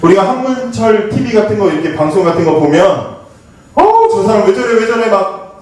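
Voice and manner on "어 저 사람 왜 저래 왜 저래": indignant viewer. Retold or imitated. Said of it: "욕하면서 보잖아요".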